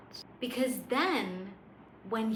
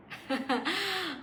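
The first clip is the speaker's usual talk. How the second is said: amused burst of laughter; brief chuckle between lines; short laugh; 6 semitones higher than usual. Real, not acted. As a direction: break into a quick laugh. Laughs amid acted awe.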